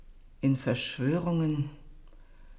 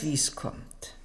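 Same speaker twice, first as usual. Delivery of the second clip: whispered; 3 semitones higher, 6 dB quieter than usual. Acted. Queen's knowing aside.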